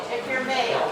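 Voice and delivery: speaking up for the room. Real, not acted. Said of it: "Can you talk louder, please?".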